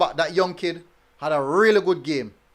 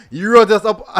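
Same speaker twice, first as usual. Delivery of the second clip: loud and laughing; amused, loud reading with a laugh; 6 dB louder than usual. Real, not acted. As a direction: laugh while reading the line. Reading a cheeky viewer comment.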